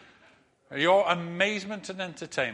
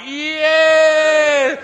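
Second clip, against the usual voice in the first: much higher, much louder yell; crowd cheer; 12 semitones higher, 16 dB louder than usual. Retold or imitated. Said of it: "the crowd were like".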